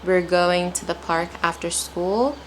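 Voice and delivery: careful, measured reading, rising on "school"; slow practice reading. Shown as a demonstration. Teacher showing learners to take their time, careful and slow. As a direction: take your time through the sentence. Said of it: "then apply a normal pace".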